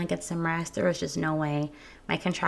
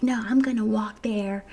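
whispered insistence that she can walk; defiant whisper; 3 semitones higher than usual. Retold or imitated. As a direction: breathe it out, stubborn. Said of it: "trying to be boss bitch".

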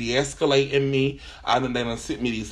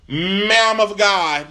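drawn-out, slightly raised "Ma'am of God"; forced godly restraint; 4 semitones higher than usual. Retold or imitated. Caller correcting customer service rep, forced godly restraint. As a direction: stretch it out in place of cussing. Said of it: "I had to go godly".

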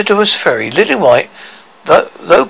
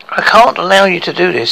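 higher, mildly defiant objection; 4 semitones higher than usual. Acted. General objecting to Hercules taking command, defiant. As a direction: stand up to him, voice a little raised. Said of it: "said the general defiantly".

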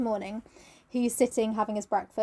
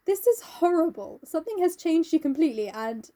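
mild mock reproach; 5 semitones higher than usual. Basil confronting Dorian, acted.

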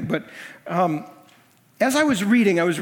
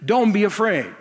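God's reassurance; 2 semitones higher than usual. Retold or imitated. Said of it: "that verse lifted off the page and just drilled me and said".

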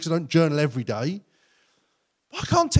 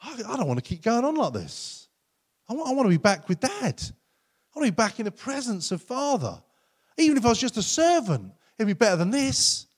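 raised, pleading voice; a son asking to be let back in; pleading prodigal son; 6 semitones higher than usual. Acted. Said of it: "he reaches a point that says".

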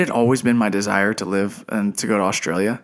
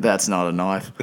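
Crocodile Dundee; 3 semitones lower, 3 dB quieter than usual. Pretend. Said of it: "about to do a Crocodile Dundee reference".

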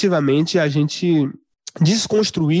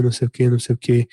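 lower, fast, dead-level droning with no tune; flat monotone; 5 semitones lower, faster than usual. Shown as a demonstration. Speaker showing how a dull lecture sounds, flat monotone. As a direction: drone it out like a bored lecturer. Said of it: "mas minha voz fosse o tempo todo retilínea".

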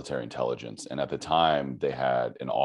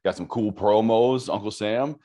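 playful; 7 semitones higher, 5 dB louder than usual. Acted. Joking about recruiter pitch.

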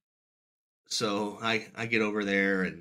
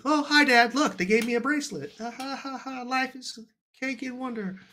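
little daughter voice. Retold or imitated. Dad imitates small daughter Ruth.

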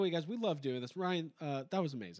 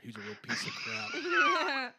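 a burst of anger; 11 semitones higher, 4 dB louder, slower than usual. Pretend. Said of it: "my Bret the Hitman Hart's".

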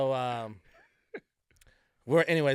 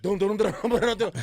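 stampede noise; 8 semitones higher, 9 dB louder than usual. Retold or imitated. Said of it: "Niggas was like".

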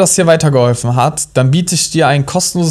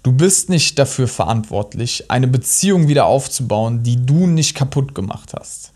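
right in your ear. Real, not acted. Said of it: "Ich sag's ein zweites Mal".

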